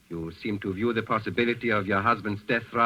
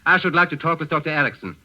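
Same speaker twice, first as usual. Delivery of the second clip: louder and higher, pressing the point; insistent demand; 4 semitones higher, 4 dB louder than usual. Acted. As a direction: repeat it firmly, cutting off objections. Gauleiter repeats demand, insisting.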